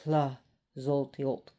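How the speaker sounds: "Tlazolteotl" slowly, with a slushy TL; slow demonstration of "Tlazolteotl"; careful pronunciation. Shown as a demonstration. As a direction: sound out "Tlazolteotl" with care. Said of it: "T L is sometimes very tricky to pronounce".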